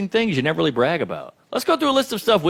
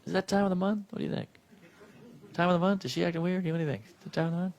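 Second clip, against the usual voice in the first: much softer, conspiratorial guessing; hushed men; 11 dB quieter, faster than usual. Retold or imitated. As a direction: murmur it like clueless men in secret.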